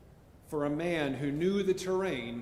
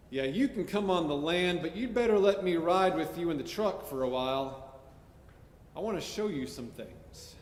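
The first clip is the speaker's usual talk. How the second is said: a hint of a rancher's twang. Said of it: "my best California rancher voice".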